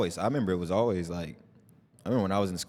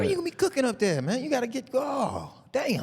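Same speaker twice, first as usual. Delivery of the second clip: teasing falsetto. Acted. Teasing about the new apartment.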